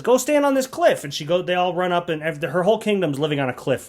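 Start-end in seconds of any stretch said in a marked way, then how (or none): 0.0-1.0 high, loud imitated command; mock queen's order. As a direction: order everyone about as a spoofed queen. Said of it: "and she says".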